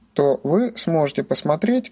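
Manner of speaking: ordinary talk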